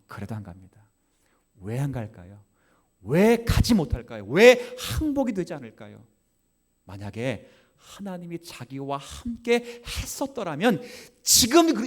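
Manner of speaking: ordinary delivery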